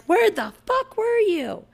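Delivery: high, slow, drawn-out angry demand; exasperated mom confronting husband; furious demand. Retold or imitated. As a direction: stretch it out, seething. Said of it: "I'm like".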